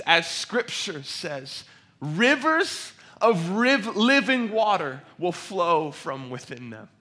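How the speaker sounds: loud, high, ringing proclamation; crying out loudly. Acted. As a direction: proclaim it to the crowd, stretching the key words. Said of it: "in a loud voice".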